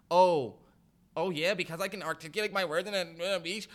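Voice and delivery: quick, sing-song mockery of a proper speaker; lightly sends up a woman showing off her diction. Host mocking the clip's proper talk, quick and sing-song. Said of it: "I thought that that was so whack".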